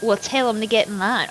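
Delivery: put-on "Well, tell 'em to get in line" read in a light Southern country accent, not sassy; a mild first pass in the country voice. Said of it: "I am country today".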